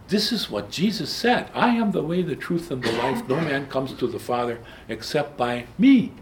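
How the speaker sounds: high, loud insistence on Jesus' words; fervent proclamation. Real, not acted. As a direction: declare it like settling the argument.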